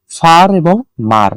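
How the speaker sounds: ফার and মার as two separate beats; syllable by syllable. Shown as a demonstration. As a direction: break farmer into ফার, then মার. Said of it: "যতটুকু অংশ একবার উচ্চারণ করা যায়".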